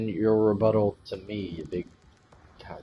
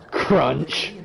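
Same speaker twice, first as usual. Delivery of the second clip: crunch sound; 5 semitones higher, 5 dB louder than usual. Pretend. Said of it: "Taking a bite".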